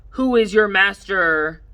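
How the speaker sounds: slow teasing triumphant voice; playful kid demand. Acted. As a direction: drag it out like a playful victor. Charlie tickling, demanding surrender.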